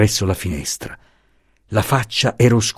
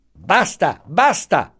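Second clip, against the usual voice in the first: impatient cutting off; 8 semitones higher, much slower than usual. A narrator's reading. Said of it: "lo interruppe subito".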